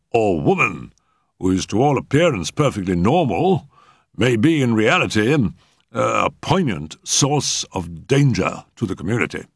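lightly voiced learned doctor; eminent physician warning the table. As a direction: weigh out the warning with emphasis.

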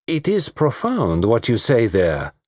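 put-on slow, lightly accented gravity; pondering detective. Detective considering a flippant parting remark, slow and thoughtful. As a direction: weigh it deliberately.

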